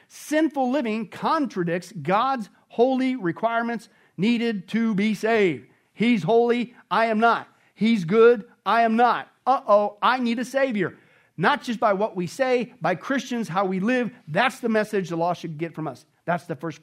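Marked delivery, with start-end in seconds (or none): 5.9-11.0 louder, punch each short line; emphatic proclamation. Real, not acted. Preacher declaring to the congregation, loud and emphatic.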